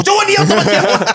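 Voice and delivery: squeaky cracking high burst. Shown as a demonstration. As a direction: voice shoots up and cracks. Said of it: "突然爆掉。".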